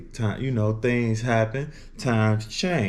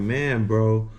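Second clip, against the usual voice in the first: imitating cousin; 6 semitones higher than usual. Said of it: "He was telling me".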